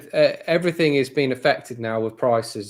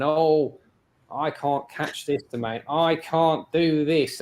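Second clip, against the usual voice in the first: mock moaning domainers, pitched up; higher-pitched mock grumble, dragging at the end; 3 semitones higher, slower than usual. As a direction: imitate complainers having a moan. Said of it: "domainers that are moaning".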